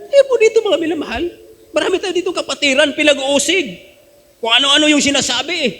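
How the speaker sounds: high, laughing remark to the congregation; laughing aside. Real, not acted. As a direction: chuckle while telling it. Laughing about persecution. (natatawang pagbabahagi)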